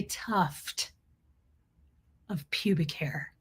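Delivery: hushed aside, breathy; whisper. Real, not acted. Telling stream viewers the gross bit in a whisper. Vulgar punchline dropped to hush.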